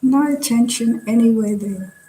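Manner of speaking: measured body-scan guidance with long pauses; guided meditation. Real, not acted. Teacher leading students through a relaxing body scan, guided meditation. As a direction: guide them gently from one body part to the next.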